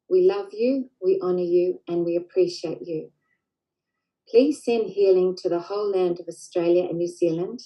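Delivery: measured, reverent prayer voice with long pauses; healing prayer. Acted. Leading listeners in a prayer for the land, reverent and unhurried.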